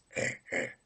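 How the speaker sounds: throat burp sound; short burped grunt; burp noise. Shown as a demonstration. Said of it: "pressure from making the noise".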